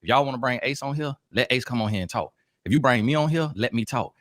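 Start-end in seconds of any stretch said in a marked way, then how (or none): none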